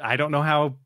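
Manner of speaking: mock worried. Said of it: "stick a knife in it a little bit and twist it".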